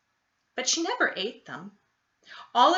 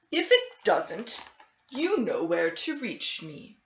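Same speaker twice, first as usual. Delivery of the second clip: doctor's voice; 4 dB louder than usual. Acted. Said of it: "Doctor Bumble said".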